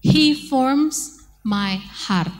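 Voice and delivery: slow, careful lyric read; teacher reading a song line to children; reading lyrics slowly. Shown as a demonstration. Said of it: "Lirik yang pertama dia bilang gini".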